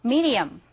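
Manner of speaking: "medium" with the tongue tip lightly tapping the ridge; tapped-d pronunciation. Shown as a demonstration. Teacher showing where the tongue touches, tapped-d pronunciation. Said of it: "볼록한 부분에 살짝 닿으면서".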